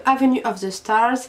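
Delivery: product name said with a passable English accent. Real, not acted. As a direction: say it the American way, in the middle of French. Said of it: "mon accent était pas mal là".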